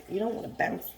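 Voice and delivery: rough, losing voice; hoarse voice. Real, not acted. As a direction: voice going hoarse. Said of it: "I think I'm losing my voice".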